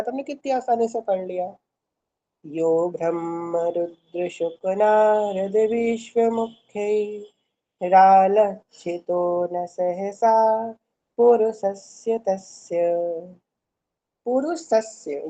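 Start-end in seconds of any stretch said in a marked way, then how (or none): 2.5-12.9 steady, slow chant of the verse line; slow verse recitation. Shown as a demonstration. Continuing the recitation. 14.2-15.3 पुरुषस्य with a doubled स in सस्य; half s sound. Shown as a demonstration. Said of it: "सस्य बोला जाएगा इसको".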